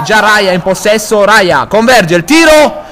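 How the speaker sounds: high, loud shot call; excited commentary. Real, not acted. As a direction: call the shot at full thrill. Shot and big save, live.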